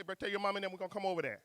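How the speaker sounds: quick, casual New Orleans accent. Shown as a demonstration. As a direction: run it together in easy New Orleans talk. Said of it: "Can y'all hear my New Orleans accent?".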